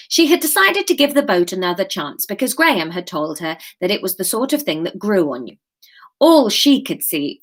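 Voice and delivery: measured live chapter reading; story narration. A narrator's reading. Author reads her chapter to live listeners, story narration.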